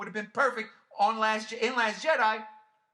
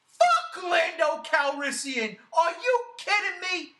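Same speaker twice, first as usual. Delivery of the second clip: quoting a movie line; 8 semitones higher, slower than usual. Retold or imitated. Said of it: "one man said in a movie called Chasing Amy".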